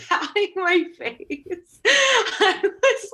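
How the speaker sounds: slow, words breaking up into laughs; laughing. Real, not acted. Storyteller recalling her sweaty interview nerves, laughing.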